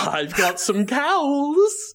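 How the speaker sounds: slow, creepy plotting; sinister cult voice. Pretend. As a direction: savour each word like a villain.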